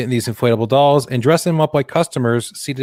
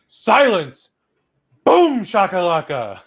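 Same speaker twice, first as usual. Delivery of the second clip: smug Boston lawyer; 7 semitones higher, much slower than usual. Retold or imitated. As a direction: declare it like a cocky lawyer. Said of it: "A fucking Boston lawyer just goes".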